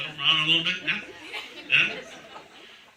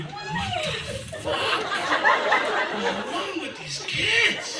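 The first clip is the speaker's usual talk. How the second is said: much higher, slow disbelieving squeal; shocked squeal; much slower than usual. Retold or imitated. Driving the cab, squealing at the passengers in much higher shock. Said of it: "I'm driving going".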